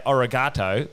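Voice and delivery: ARIGATO in a plain Aussie accent; unconverted Aussie accent on Japanese. Shown as a demonstration. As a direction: say the Japanese word with Aussie vowels. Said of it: "is that how we sound to them".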